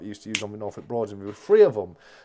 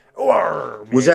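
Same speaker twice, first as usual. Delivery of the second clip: mock pirate voice, louder; 3 semitones higher, 8 dB louder than usual. Joking that all pirates sound Bristolian: put-on Bristolian pirate accent. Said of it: "all pirates are Bristolian".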